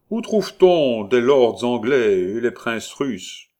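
loud holler from another room; hoarse man's voice. Acted. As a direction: call the question out forcefully. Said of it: "fit la voix rauque". (voix rauque qui crie)

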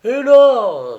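high, loud sudden call; exclaiming. A narrator's reading. Old sailor spotting something far off, sudden exclamation. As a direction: point it out with a start. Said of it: "s'exclama Salone".

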